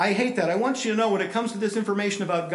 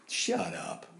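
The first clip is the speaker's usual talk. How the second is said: laughing retort; 7 semitones higher, 7 dB quieter than usual. Retold or imitated. Atheist buddy's laughing retort.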